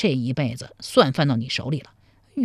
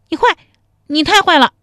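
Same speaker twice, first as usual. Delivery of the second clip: higher, louder pretend pout; mock anger; 11 semitones higher, 8 dB louder, faster than usual. A narrator's reading. 陶三春假装生气地嗔怪偷瓜贼，娇嗔地说. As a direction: scold him as if angry, but playfully. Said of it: "假装生气说".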